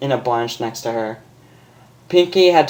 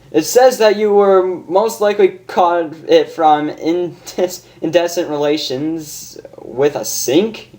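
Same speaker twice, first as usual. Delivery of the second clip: higher, grave doctor; 4 semitones higher than usual. Acted. Doctor telling Rainbow her diagnosis, higher grave voice. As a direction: read out a bad diagnosis.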